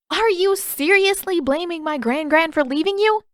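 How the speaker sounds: angry Katara. Acted. Katara angrily confronts Paku.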